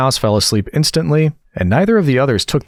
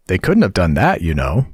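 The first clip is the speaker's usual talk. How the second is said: gentle; 2 semitones lower than usual. Acted. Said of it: "Alice gently remarked".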